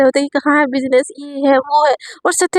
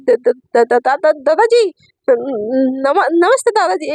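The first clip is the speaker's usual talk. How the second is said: nervous stammer; much slower than usual. Acted. Startled girl stammering a greeting to her grandpa, nervously. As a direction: trip over every syllable, caught off guard.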